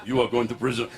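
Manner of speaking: put-on low Arab-accented threat. Arab threatens the driver, low Arab accent. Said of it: "oh, he said".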